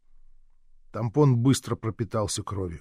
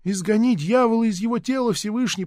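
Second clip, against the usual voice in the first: echoing prayer; 9 semitones higher than usual. A narrator's reading. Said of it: "подхватила мать".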